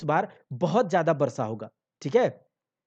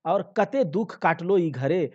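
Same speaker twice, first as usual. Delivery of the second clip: loud lament; 3 semitones higher, 5 dB louder than usual. Acted. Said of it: "अपने दुहाई देने लगती है".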